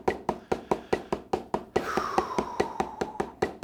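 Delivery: long, slow exhale; long sigh. Shown as a demonstration. Drum teacher showing how to relax, long sigh. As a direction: let the breath out slowly.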